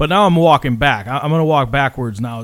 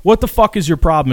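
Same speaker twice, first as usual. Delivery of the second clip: higher, mildly heated argument; mock indignation, pitched up; retold indignant protest; 5 semitones higher, 3 dB louder than usual. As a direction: re-enact arguing back at someone. Acts out argument over money.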